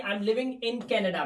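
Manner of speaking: each word slow and separate for the class; slowly, so students can copy it; slow example sentence. Shown as a demonstration. Teacher to students, spelling out the example slowly. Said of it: "तो यहां पर हम use करेंगे".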